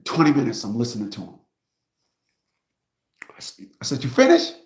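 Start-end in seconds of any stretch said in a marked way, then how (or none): 4.0-4.5 mocking. Retold mocking his client.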